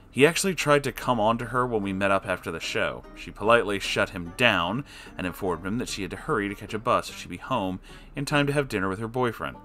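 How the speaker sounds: ordinary delivery, nothing marked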